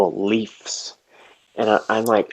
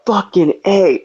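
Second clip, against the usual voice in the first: high, louder astonished what; pitched-up stunned exclamation; amazed; 8 semitones higher, 3 dB louder, slower than usual. Retold or imitated. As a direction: blurt it out in disbelief. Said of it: "And I was like".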